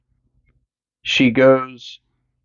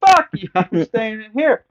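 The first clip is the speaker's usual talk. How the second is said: mock defiant yell; 10 semitones higher than usual. Lori screaming at Michael from inside the closet. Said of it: "Lori's like".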